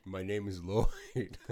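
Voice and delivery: slow, drawn-out movie hero line; slow character voice. Retold or imitated. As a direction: say it like a cartoon hero introducing himself. Echoing character intro line.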